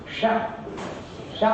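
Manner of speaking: श said as a palatal sh, tongue at the palate; palatal sh sound. Shown as a demonstration. Teacher models the palatal श for students. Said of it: "सा का उच्चारण स्थान तालु है".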